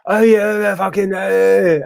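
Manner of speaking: high, loud mock mumble, words barely formed; mock thick Scottish mumble. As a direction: imitate bandmates rattling off slurred Scots. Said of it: "Paul and James are just like".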